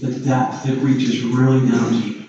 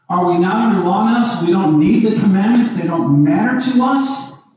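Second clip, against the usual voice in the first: voicing the objector; 4 semitones higher than usual. Preacher voicing a skeptic's challenge to Paul, rising and pressing. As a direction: push the doubter's questions up and on. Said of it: "Romans six fifteen says, so what are you saying?".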